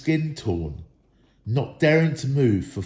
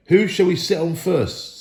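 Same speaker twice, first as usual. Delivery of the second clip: troll voice; 6 semitones higher, 3 dB louder than usual. A narrator's reading. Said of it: "said the voice".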